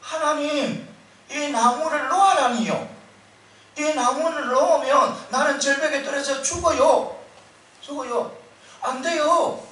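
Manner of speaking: a man clinging to a branch begs God not to let go; panicked pleading yell. Retold or imitated. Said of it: "이렇게 다시 고함을 치는 거예요".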